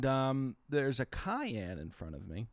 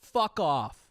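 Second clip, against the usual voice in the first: angry snap; 6 semitones higher, 9 dB louder than usual. Retold or imitated. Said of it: "he went".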